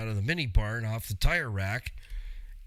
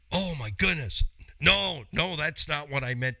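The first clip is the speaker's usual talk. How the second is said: embarrassed alarm; 3 semitones higher than usual. Retold or imitated. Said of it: "They go".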